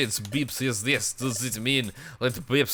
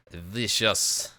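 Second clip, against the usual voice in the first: vicious repeated low and dry; low echo; 5 semitones lower than usual. Shown as a demonstration. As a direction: drop vicious down low and flat. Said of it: "That vicious bandit was there".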